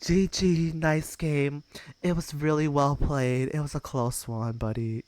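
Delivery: a lightly voiced, sugary mock-sportsmanlike tone; be annoyingly nice to needle the loser; annoying fake politeness. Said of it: "really annoying toxic".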